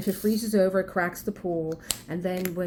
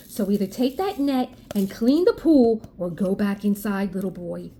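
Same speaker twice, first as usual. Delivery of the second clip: stern; 3 dB louder than usual. Retold or imitated. Scolding the neighbor's son.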